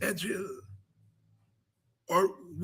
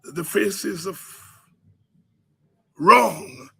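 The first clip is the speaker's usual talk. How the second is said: ordinary talk, nothing marked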